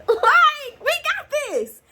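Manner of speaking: high, slow, laughing bravado; laughing boast. Retold or imitated. Daughter telling her mom she can handle it, laughing and high-pitched.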